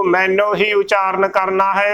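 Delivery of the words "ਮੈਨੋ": ਮੈਨੂੰ as mai-no; final o. Shown as a demonstration. Teacher restating the right reading, ਮੈਨੂੰ said as mai-no. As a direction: close ਮੈਨੂੰ on o, never oo. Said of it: "ਨੰਨੇ ਨੂੰ ਹੋੜਾ ਨੋ".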